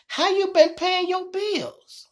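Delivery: suspicious officer. Retold or imitated. Officer questioning her suspiciously.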